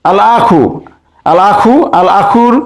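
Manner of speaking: "আল আখু" with the article's lam audible; lam pronounced. Shown as a demonstration. Teacher repeating for students, lam sounded in "আল আখু". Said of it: "আলিফ লামের লাম উচ্চারণ হচ্ছে".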